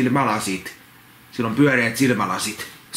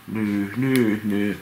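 quieter sniffly nyh, falling away; a hushed sulking snivel; softer troll whimper; 3 semitones lower, much slower than usual. Acted. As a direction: whimper it again, smaller and sadder. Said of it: "Se nyhkyttää".

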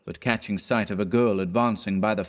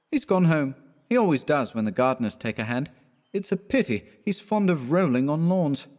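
lightly voiced, higher-pitched student; a hint of a flippant young man, pitched up; breezy chat in Clifford's raised voice; jaunty young student; 4 semitones higher than usual.

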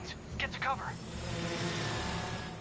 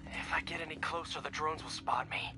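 whispering; 6 semitones lower than usual. Acted. Sneaking past drones.

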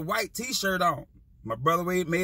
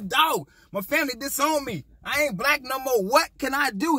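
self quoting in mock despair; 5 semitones higher than usual. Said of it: "but says".

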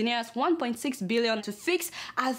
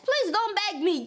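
mock outrage; 6 semitones higher than usual.

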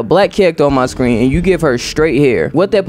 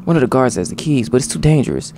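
prison rescue dialogue; 2 semitones higher than usual. Acted. Voices game characters in the cell.

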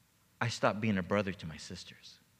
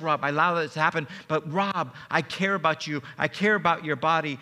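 lightly voiced Jesus, higher and earnest; voicing Jesus; 4 semitones higher, 3 dB louder than usual. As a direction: speak gently as the Lord reassuring. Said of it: "Jesus goes".

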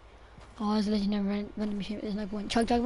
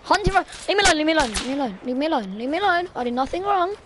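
mock pleading whine; 5 semitones higher, much faster than usual. Pleading while chased in game.

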